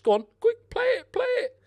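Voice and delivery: high, loud "play it, play it"; urgent urging. Real, not acted. Gamer yells at his midfielder to pass. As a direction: hurry the pass along.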